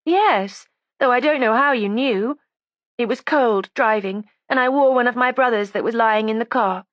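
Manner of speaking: put-on high, defiant young woman; resentful young woman. A narrator's reading. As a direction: voice her as a sulky, stubborn girl. Judy's voice again.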